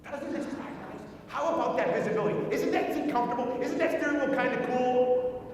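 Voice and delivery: mildly gushing retold voice; too much emotion. Wife selling the car to her husband, gushing. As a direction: enthuse over each feature a little. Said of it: "Don't show too much emotion".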